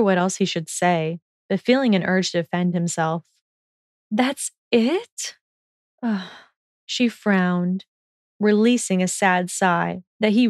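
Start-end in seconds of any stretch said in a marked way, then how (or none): 4.1-6.3 lighter, higher voice for Hermione; a higher girl's voice, unimpressed; Hermione's voice. Acted. Hermione to Malfoy, a higher unimpressed voice. Hermione questions his diet.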